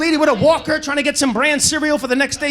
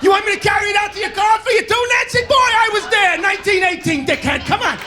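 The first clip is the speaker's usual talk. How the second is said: a hint of a cranky old war veteran; grumpy old bagger; 7 semitones higher than usual. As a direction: needle the customer like a crusty veteran. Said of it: "He's like".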